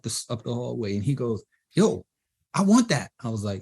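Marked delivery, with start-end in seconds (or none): 1.7-3.1 raised, high-pitched retold excitement; eager demand. Rapper running up the hallway after a beat, eager. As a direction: act out chasing after the beat.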